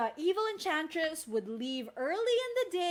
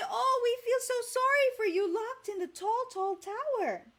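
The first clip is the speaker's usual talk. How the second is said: pity voice; 9 semitones higher, 4 dB louder than usual. Shown as a demonstration. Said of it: "can you say".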